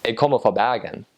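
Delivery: Western Norwegian Bergen accent, throaty R; Bergen dialect. Shown as a demonstration. Showing how someone from Bergen says it, Western Norwegian dialect. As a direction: say it like a Bergen local. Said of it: "if you are actually from Bergen, you'd say".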